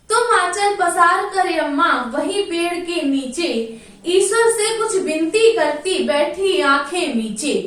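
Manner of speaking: sing-song poem recital, lightly chanted; poem recitation. Acted. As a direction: recite the verse to the class in a lilting chant.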